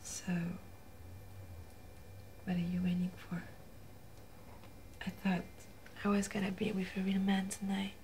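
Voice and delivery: soft, breathy, teasing whisper; seductive whisper. Acted. Woman whispering to the man to turn off the camera, seductive.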